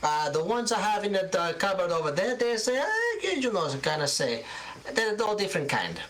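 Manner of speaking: put-on high old shopkeeper voice, Italian lilt, showing off her wares; an elderly seamstress boasting of buttons from Genova; proud old Italian seamstress. Gilda talks of her buttons.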